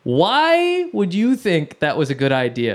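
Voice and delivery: lightly acted exasperation, spaced out; mock scolding. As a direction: imitate an older brother telling you off, drawn out. Brother scolds him on phone.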